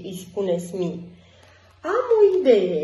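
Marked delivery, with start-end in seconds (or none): 1.8-2.8 high and loud with a bright idea; excited exclamation. A narrator's reading. Jake announcing his idea to friends, high and excited. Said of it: "exclamă Jake".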